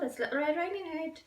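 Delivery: put-on little girl voice. Girl announcing herself at door.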